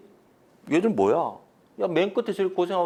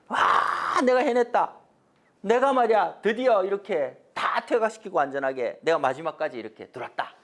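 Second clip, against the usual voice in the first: mildly raised, high proud boast; acting out a victorious general's cry; hammed-up hero's announcement; triumphant shout; 6 semitones higher than usual. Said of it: "소리를 질렀어요".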